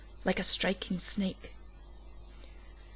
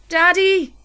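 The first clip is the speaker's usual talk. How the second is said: put-on much higher, louder frightened child's wail; 10 semitones higher, 9 dB louder than usual. A narrator's reading. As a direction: cry out for her father in fear. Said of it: "she wailed".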